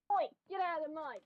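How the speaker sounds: a sudden Australian accent on a sharp call; Australian slip. Real, not acted. Scolding the dog in the mud, Australian accent. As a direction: bark it like an Aussie, briefly. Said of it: "Turned Australian for a second".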